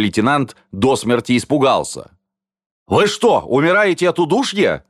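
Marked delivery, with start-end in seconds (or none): 2.9-4.8 high, alarmed question; frightened question. A narrator's reading. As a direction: ask in startled alarm, pitched up. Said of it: "испуганно спросил он". (испуганно, высоким голосом)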